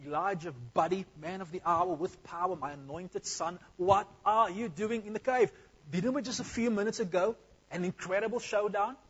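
joking God voice. Pretend. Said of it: "God didn't say that".

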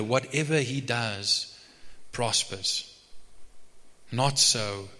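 measured, solemn psalm reading; scripture reading. Real, not acted. Preacher reads the psalm to the congregation, measured scripture reading. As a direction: read it out with weighty pauses.

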